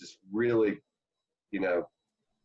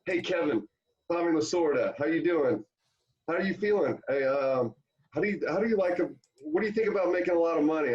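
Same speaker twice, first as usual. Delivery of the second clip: put-on higher, eager old manager's sales pitch; Tommy Lasorda impression; 7 semitones higher than usual. Lasorda cold-calling Kevin about Japan money, high hearty pitch. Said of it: "So Tommy goes".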